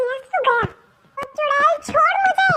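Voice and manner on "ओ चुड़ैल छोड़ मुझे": pained yell. Acted. Scuffle, being hit.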